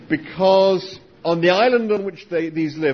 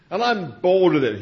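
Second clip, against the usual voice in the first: Struan Sutherland. Retold or imitated. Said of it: "my Australian accent isn't very good".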